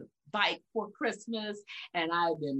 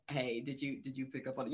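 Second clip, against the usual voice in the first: soft, low confiding question; hushed aside; 6 semitones lower, 9 dB quieter, faster than usual. Retold or imitated. Speaker quietly checking with a friend after a slip. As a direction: ask it quietly so nobody hears. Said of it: "you're like".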